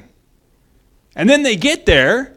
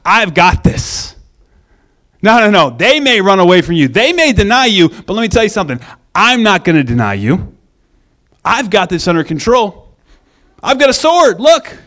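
louder, proud boasting as Peter; boastful Peter; 4 dB louder than usual. Retold or imitated. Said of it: "Peter kept thinking over and over".

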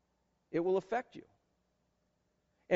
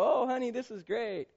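fake enthusiasm; 2 semitones higher than usual. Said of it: "Sit next to her and go".

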